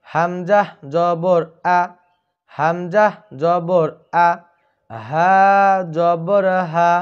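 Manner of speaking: হামজা জবর আ slow and clear, short আ, for the class to repeat; correct zabar drill. Shown as a demonstration. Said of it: "সকলেই আমার সাথে বলার চেষ্টা করুন". (শিক্ষকের মতো ধীরে সঠিক জবর)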